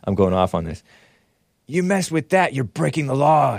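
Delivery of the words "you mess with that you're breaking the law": lightly raised mock Biden voice; a hint of the president scolding; Biden impression. Host lightly mimicking Biden's warning. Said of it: "said Bi-, Sleepy Joe Biden".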